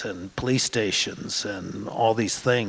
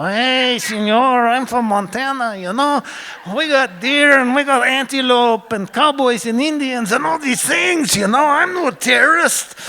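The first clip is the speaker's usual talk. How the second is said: much higher, hammed-up fake Mexican accent; cheap Mexican accent; 14 semitones higher, 7 dB louder than usual. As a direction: lay on a cheesy Mexican accent to play the harmless tourist. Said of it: "cheap Mexican accent".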